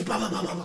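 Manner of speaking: rapid babbled punching noise; imitated turbo punches. Gamer showing Punch-Out's turbo, rapid-fire noise. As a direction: rattle off a repeated syllable like turbo punches. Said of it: "I just love doing the turbo thing".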